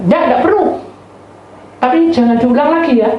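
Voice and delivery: high, loud scolding; sharp rebuff. Retold or imitated. Mother refuses the offer, high loud scolding. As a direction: push the warning out high and loud.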